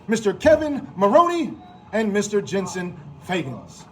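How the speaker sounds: ordinary delivery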